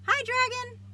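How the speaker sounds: high, loud teasing call from hiding. Acted. Snake calling to Dragon from behind a rock, loud and high. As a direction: tease him from behind the rock.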